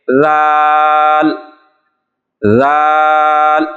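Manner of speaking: ذال drawn out very slowly with no hiss; zal without whistle. Shown as a demonstration. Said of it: "سیٹی کی آواز نہیں آنی چاہیے".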